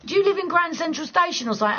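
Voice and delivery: ordinary talk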